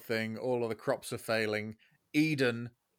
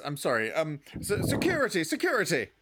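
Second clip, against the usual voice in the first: higher, rushed call for help; panicked call for security; 5 semitones higher, faster than usual. Acted. Waiter calling security in panic.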